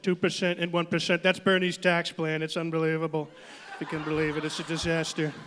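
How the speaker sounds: brash rally Trump, boastful and rambling; hammed-up Donald Trump stump speech; Trump impression. Comic plays Trump announcing a border wall, brash rally voice.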